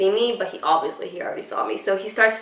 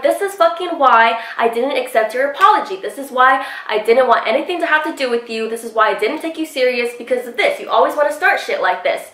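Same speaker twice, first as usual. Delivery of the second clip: mildly raised, insistent retold rant; heated telling-off; 2 semitones higher than usual. Telling off the man after the scuffle, heated mock argument. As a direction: re-enact scolding him without a full yell. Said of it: "I was still yelling at Evan".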